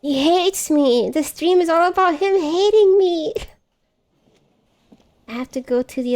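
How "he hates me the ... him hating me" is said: higher-pitched, louder lament; mock-hurt complaint. Real, not acted. Streamer laments a character hating her, mock-hurt complaint. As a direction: lament it, drawing out the first words.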